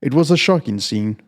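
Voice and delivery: measured, somber reading of a crime tale; calm, even storytelling voice with a dark undertone; story narration. A narrator's reading. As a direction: read it like a steady audiobook narrator. Reads chapter of dark story.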